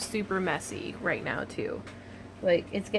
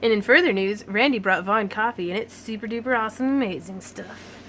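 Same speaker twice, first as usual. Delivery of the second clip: announcer voice. Shown as a demonstration. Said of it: "What should I announce about?".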